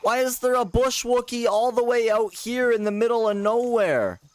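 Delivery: high, incredulous outburst; startled disbelief. Real, not acted. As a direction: caught off guard, pitch shooting up. Stunned at odd character in game.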